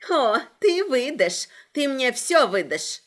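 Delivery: slow menacing villain hiss; sinister hiss. Acted. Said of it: "зловеще прошипела Агата".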